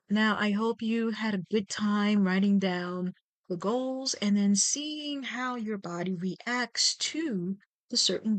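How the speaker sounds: measured meditation guide, pausing between phrases; guided meditation. Real, not acted. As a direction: lead listeners through breath and body awareness, unhurried.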